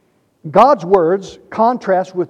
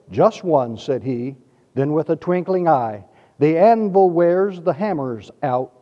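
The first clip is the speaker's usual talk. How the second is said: poem recitation. Acted. Preacher recites an anvil poem to his congregation, measured cadence. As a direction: recite with deliberate cadence, letting lines fall away.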